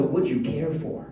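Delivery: would you care for, slow, in a light posh English accent; slow Downton Abbey English on would you care for. Shown as a demonstration. Dad mimicking daughter's posh English, slow. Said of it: "Downton Abbey level English".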